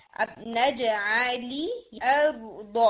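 الارض with a firm, strong hamza, very slow. Shown as a demonstration. Teacher showing the student a strong hamza, slow. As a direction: press the hamza of الارض firmly. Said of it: "strong رکھنا ہے".

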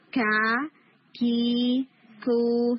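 کا، کی، کو each with a strong stop and a breath of air; crisp ک before each vowel; kaaf with vowels. Shown as a demonstration. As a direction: drill کا کی کو cleanly. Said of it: "ایئر بلو ہوگی".

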